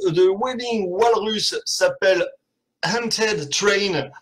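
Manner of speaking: A song title in a hammed-up Texan Québécois accent, drawn out and slow; host hams up the band's song title in a mock Texan Québécois accent. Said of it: "ça c'est pour mon accent toujours, texan québécois".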